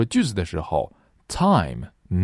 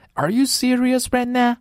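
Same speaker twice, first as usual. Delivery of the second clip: mock Black American accent. Teacher imitating a student's wrong vowel, high mocking accent. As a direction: imitate someone saying now as na, pitched way up. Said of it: "黑人会把now这个双元音发成na".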